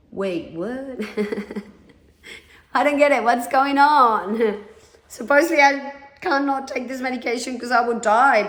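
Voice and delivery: giggle, baffled it turned out fine; laughing disbelief. Real, not acted. To listeners, surprised the medication did nothing, laughing.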